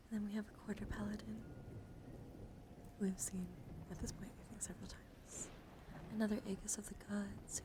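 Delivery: hushed, close whisper for a card showcase; ASMR whisper. Acted. ASMR creator whispering through her Magic cards, gentle whisper. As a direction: whisper as if lulling someone to sleep.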